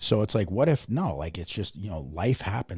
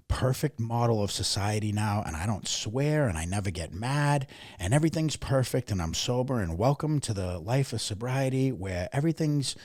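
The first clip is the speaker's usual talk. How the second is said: mock perfection; 3 semitones higher than usual. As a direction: parody a too-perfect sober self. Mocks own old perfect-sober persona.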